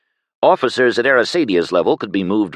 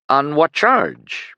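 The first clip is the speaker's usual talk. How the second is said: slow and higher, barely getting it out; shocked, halting; 8 semitones higher, slower than usual. A narrator's reading. Penn, stunned by the news, asks the soldier the charge slowly. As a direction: force the words through shock. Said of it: "Penn managed".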